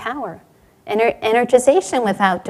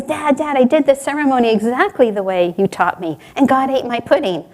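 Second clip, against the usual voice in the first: eager, lightly voiced excited child; mildly excited boy, raised opening; excited little boy; 2 semitones higher than usual. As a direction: burst out with the news to dad. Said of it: "the little boy's so excited".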